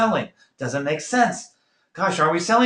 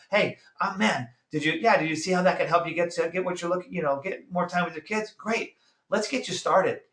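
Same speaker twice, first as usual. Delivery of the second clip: demo of his close; 3 semitones higher, 4 dB quieter than usual. Shown as a demonstration. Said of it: "It's the one I use".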